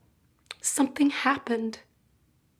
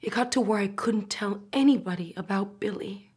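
tragic heroine sorrow; 4 semitones lower than usual. Acted. Mother confessing, voice breaking.

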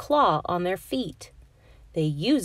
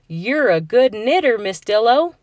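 loud, admiring praise; a touch of awe; impressed; 4 semitones higher, 7 dB louder than usual. Acted. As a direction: compliment her with real delight. Frog admires the gifts.

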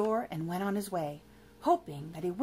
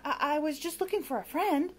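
high, halting whimper; meek whimper; 6 semitones higher than usual. Acted. Monster explaining himself to witch, whimpering. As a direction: stumble timidly into the excuse. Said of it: "whimpered Lamont".

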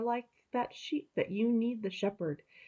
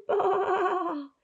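high, loud lamb bleat; frightened lamb calling out high; lamb bleating loudly; 11 semitones higher, 3 dB louder than usual. Acted. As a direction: bleat out like a lost little lamb.

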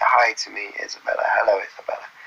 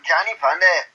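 high mock Scottish; Scottish accent; 4 semitones higher than usual. Complaining about a lost hoodie, high mock Scottish. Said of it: "Scottish accent".

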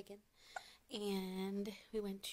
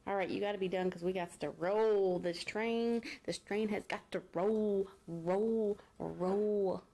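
calling out loudly; 7 dB louder than usual. Real, not acted. Mom hurrying the kids out.

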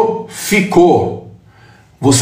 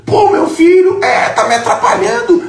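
mock mother complaining; 12 semitones higher than usual. Speaker imitates a mother scolding her son, high mock outcry. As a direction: play the nagging mom with a laughing shout.

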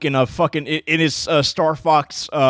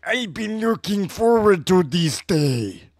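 put-on slow Hispanic accent villain; drawn-out Hispanic accent; 3 semitones higher, slower than usual. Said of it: "Hispanic accent".

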